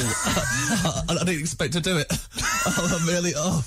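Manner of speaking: coughing and choking, strained shout; choking after swallowing. Real, not acted. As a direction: splutter through it after swallowing something whole. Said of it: "I just swallowed a whole Suva whole".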